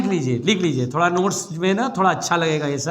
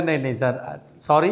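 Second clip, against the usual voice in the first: mock frightened apology; 7 semitones lower, 4 dB quieter than usual. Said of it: "मैं डर गया".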